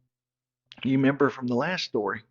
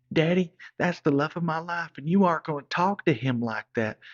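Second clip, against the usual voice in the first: indignant daughter; 4 semitones higher, 3 dB louder than usual. Retold or imitated. Sheila defends her boyfriend.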